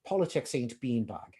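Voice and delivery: a hint of an Irish accent. Quoting a Chicago columnist's political statement, light Irish accent. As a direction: lightly quote it in an Irish accent, with "beanbag" as "beanbahg". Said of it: "in an Irish accent".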